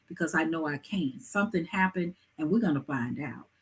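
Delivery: low, soft, conciliatory offer; gentle customer-soothing tone, voice kept down; calming voice. Shown as a demonstration. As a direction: calmly reassure an unhappy client. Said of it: "if you even have to say".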